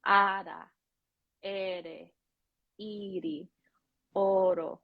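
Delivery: "ara, ere, iri, oro" with a single flicked R; pure Spanish vowels round one tongue tap in "ara, ere, iri, oro". Shown as a demonstration. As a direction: drill "ara, ere, iri, oro", each set apart, R lightly tapped. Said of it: "work on those syllable sounds".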